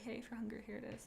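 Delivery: very soft, hushed offer; gentle. Acted. Leaving food at her bedroom door, gentle and hushed. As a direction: say it gently, barely above a murmur. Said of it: "knock so gently and be like".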